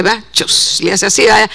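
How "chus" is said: small, low-key "chus" noise; imitated sound effect. Preacher shows how the pastor preaches with effects, imitated whoosh. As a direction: mimic the pastor's effect lightly. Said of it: "nos predica con efectos especiales".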